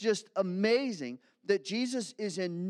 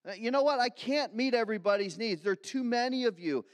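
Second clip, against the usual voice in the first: fed-up Jesus; 2 semitones higher, 3 dB louder than usual. Pretend. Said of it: "Jesus would be justified to say".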